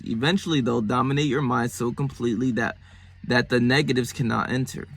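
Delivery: measured read-out of a self-help passage; deliberate book-reading voice; reading aloud. Acted. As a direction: read it out evenly, each phrase falling at the end.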